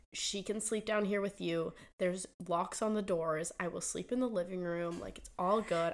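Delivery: retold kindly offer, unhurried; kind reassurance. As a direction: imitate a nice man calmly offering help. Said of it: "This man was so nice".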